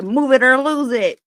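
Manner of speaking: high, loud impatient granny shout; nana yelling. Retold or imitated. Nana on the street shouting at people in the way, high and loud. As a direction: shove traffic aside with your voice. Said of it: "She'd be, like, on the street".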